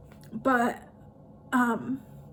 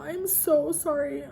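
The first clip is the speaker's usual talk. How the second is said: teary apology; 4 semitones higher, slower than usual. Real, not acted. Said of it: "ugly crying right now".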